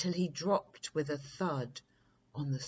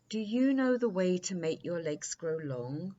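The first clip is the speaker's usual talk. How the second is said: prince voice; 3 semitones higher, 4 dB louder than usual. Acted. Prince's eager question.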